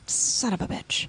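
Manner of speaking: whispered under the breath; breathy hushed curse. Retold or imitated. Retold blooper line, whispered.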